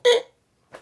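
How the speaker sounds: short high squeak; sudden high-pitched noise for teeth going crooked; imitated shifting teeth. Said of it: "teeth are gonna go".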